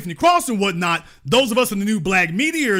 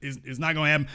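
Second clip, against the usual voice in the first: lightly voiced, softer, consoling let-down; half-mock soothing, fading quieter; talking to her like a pitying elder, softly; gentle put-down; 6 semitones lower, 5 dB quieter, much faster than usual. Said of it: "told her what I've been telling".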